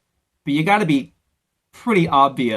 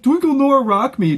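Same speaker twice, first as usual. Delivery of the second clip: higher, louder sneering recital of the title; mocking imitation; 10 semitones higher, 7 dB louder than usual. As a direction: ham up the title. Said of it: "he just like".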